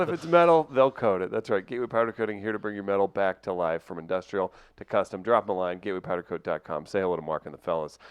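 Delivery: steady sponsor read. Acted. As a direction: read it like a radio ad. Reads sponsor ad.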